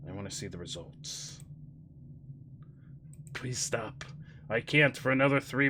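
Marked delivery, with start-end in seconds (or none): 0.1-4.0 whisper. Real, not acted. Pleading with the game.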